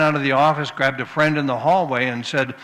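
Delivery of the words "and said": ordinary talk, nothing marked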